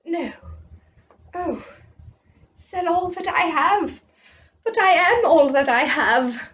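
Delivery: a rich man who can't let go; dismayed rich man. Acted. Children's teacher voicing the rich man, dismayed.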